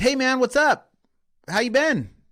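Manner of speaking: very high, laid-back, casual tone. Showing how you'd greet a buddy, casual buddy greeting. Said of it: "how would you call your buddy?".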